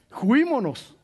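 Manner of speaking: juímonos drawn out slowly through a laugh. Retold or imitated. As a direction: chuckle through the Cantinflas word. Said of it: "como dijo Cantinflas".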